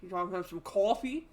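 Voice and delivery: lightly put-on Boston accent. Podcaster imagining a Boston Terrier's talk, mock Boston accent. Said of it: "you know, accent".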